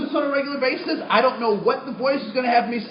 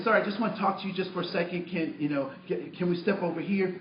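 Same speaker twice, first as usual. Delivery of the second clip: a touch softer and meeker, shoulders slumped; meek, submissive; 4 semitones lower, 6 dB quieter than usual. Retold or imitated. Stranger in a grocery store, softer and meeker. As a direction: play it small so he won't feel challenged. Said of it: "I'm slumping my shoulders".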